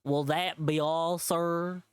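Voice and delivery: slow, clearly enunciated cashier; over enunciating. Acted. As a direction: talk down slowly to a foreigner. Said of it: "He enunciated clearly like I was deaf".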